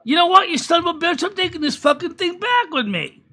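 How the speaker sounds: a hammed-up trucker cursing out the drop-off guy; mock furious trucker. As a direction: blow up at the clerk, half laughing. Trucker exploding, acted.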